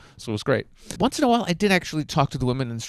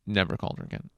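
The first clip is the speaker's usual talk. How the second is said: whispered punchline; 5 semitones lower, 7 dB quieter than usual. Real, not acted. Telling the audience the sad ending in a whisper. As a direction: whisper "never called her again" under the breath. Repeated punchline, said under breath.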